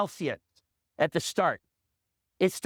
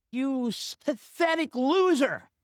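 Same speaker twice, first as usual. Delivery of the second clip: high, drawn-out mock fury at yourself; furious self-insult; 5 semitones higher, slower than usual. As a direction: berate yourself, stretching out the insult. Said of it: "And I'm furious, so I go".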